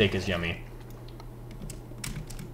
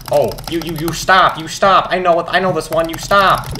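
goofy answer; 7 semitones higher, 4 dB louder than usual. Retold or imitated. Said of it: "goofy answer".

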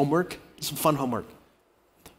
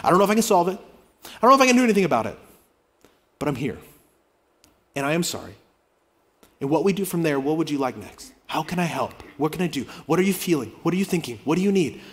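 patient apology; faster than usual. Shown as a demonstration. Pastor modelling an apology to a hurt spouse, gentle. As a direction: say it gently, leave room. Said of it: "Create margin and breathing room".

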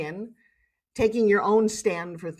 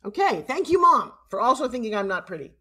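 mock-grateful, pitched up on the thank you; sarcastic thanks; 3 semitones higher, 3 dB louder than usual. Daughter to mom who doubted her looks, sarcastic.

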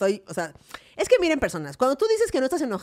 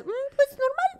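lukewarm answer; 13 semitones higher, much slower than usual. Retold or imitated. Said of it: "tú dirás".

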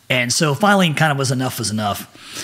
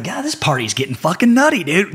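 higher-pitched, impressed exclamation; amazed party reaction; 4 semitones higher than usual. Retold or imitated. Reenacts their reaction at party.

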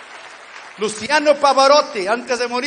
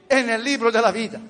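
measured phrases with pauses to repeat; solemn, deliberate prayer in short pieces; leading sinner's prayer. Real, not acted. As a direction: lead the congregation phrase by phrase. Leads repeat-after-me prayer.

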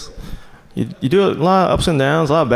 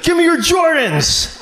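mock robber; 9 semitones higher, slower than usual. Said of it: "he's like".

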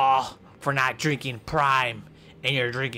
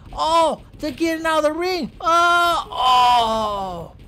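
much higher, louder frantic calls; frantic commentator; 7 semitones higher, 4 dB louder than usual. Pretend. Commentator freaking out over the women's match at high pitch. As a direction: shriek the play-by-play in a panic.

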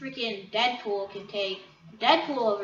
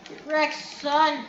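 slow taunt; 5 semitones higher, 4 dB louder, much slower than usual. Acted. Taunt repeated slowly.

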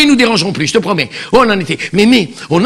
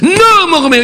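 Juliette voice; 6 semitones higher than usual. Acted. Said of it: "Juliette, comme ça".

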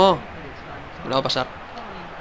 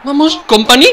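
high, loud cheer; 10 semitones higher, 9 dB louder than usual. Real, not acted. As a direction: cheer the player on. Cheering a goal. (grito de ánimo)

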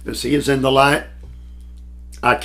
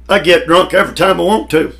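fast, raised, boasting; imitating D L Moody; 4 semitones higher, 3 dB louder, faster than usual. Preacher quoting Moody's old boast, fast and brash. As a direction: rattle it off like a carefree drinker. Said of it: "D L Moody said it".

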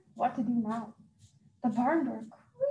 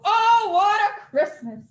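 happy exclamation; 5 semitones higher, 7 dB louder, slower than usual. Acted. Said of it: "said Santa".

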